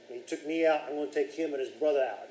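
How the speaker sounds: a faint hint of a New Jersey accent; tough-guy line with just a touch of New Jersey; barely there New Jersey accent, half-joking; slight New Jersey accent. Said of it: "I don't know where the New Jersey accent came from".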